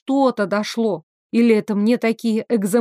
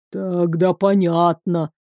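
slow, lower, philosophical drawl; guard drawling out his conclusion philosophically; 4 semitones lower, slower than usual. Acted. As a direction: stretch it out like a resigned sage. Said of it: "философски протянул стражник".

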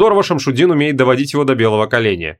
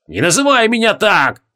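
groaned; 7 semitones higher than usual. A narrator's reading. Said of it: "застонал Креол".

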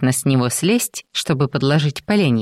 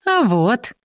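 giggling; 9 semitones higher than usual. A narrator's reading. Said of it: "хихикнула Дженни".

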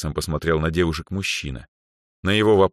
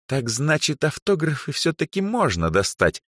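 predatory glee; 10 semitones higher than usual. A narrator's reading. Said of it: "азартно и хищно улыбнулась Эльза".

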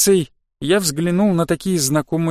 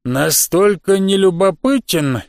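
slow, wet smacking question; smacking slug voice; slower than usual. Acted. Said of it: "прочавкал, или скорее прочмокал".

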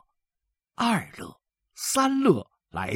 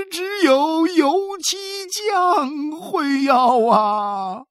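high, slow, whimpering lament; an old man weeping he is useless; sobbing old man; 8 dB louder, much slower than usual. A narrator's reading. Xu Sanguan whimpers to his sons, slow and high. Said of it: "呜咽着说".

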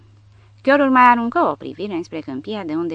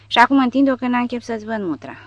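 contemptuous dismissal; 7 semitones higher, 6 dB louder than usual. A narrator's reading. Porta tells SS man off.

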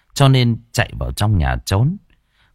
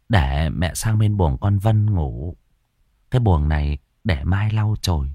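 reassuring. Acted. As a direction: settle the frightened son down gently. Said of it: "Bà trấn an con".

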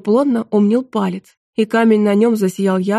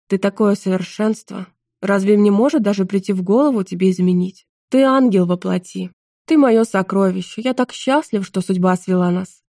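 hammy stage actor. Acted. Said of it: "пафосно воскликнул граф".

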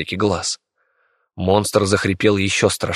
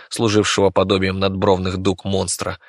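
usual speaking voice

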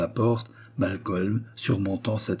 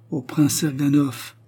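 slow, weighed words, a little higher; slowly; 6 semitones higher, 3 dB louder, slower than usual. A narrator's reading. La princesse achève la phrase d'Israël, lentement. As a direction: let the name fall slowly. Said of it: "acheva-t-elle lentement".

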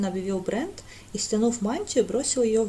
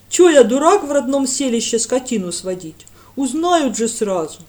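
eager village lad; 3 semitones higher, 10 dB louder than usual. A narrator's reading. Lad scoffing.

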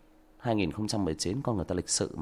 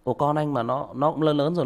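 ordinary talk, nothing marked

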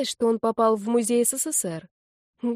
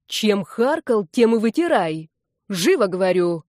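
shouted orders; 5 dB louder than usual. Acted. Granny forcing the spitter to clean up, shouting. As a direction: drill each word into him, louder.

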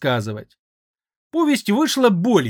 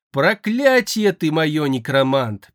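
slow, a touch of a whine; mild weepy lament; tearful voice. Acted. Mage laments to the necromancer in a lightly tearful voice. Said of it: "плачущим голосом изрёк он".

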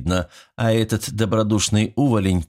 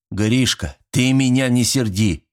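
sudden louder, higher angry warning; flaring up; 4 semitones higher, 3 dB louder than usual. Acted. Father flares up at his stubborn son, angry. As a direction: flare up instantly. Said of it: "завёлся с полоборота завхоз".

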